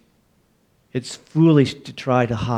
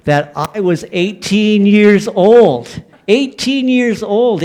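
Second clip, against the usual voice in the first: laughing; 7 semitones higher, 5 dB louder, slower than usual. Real, not acted. Laughing at own childhood fear.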